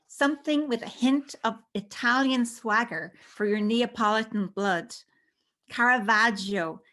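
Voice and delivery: savouring each word of a love poem; poetry reading. Acted. Poet reads her love poem.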